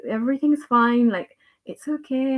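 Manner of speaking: calm yourself down kindly, easing into the breath; gentle self-soothing. Acted. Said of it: "gentle and go".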